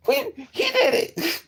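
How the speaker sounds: high, slow laughing words. Real, not acted. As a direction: laugh through it. Laughing at story.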